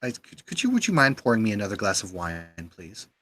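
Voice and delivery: stammering, polite request; flustered commander. Acted. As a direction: caught off guard, fumbling for words. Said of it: "his eyes go wide".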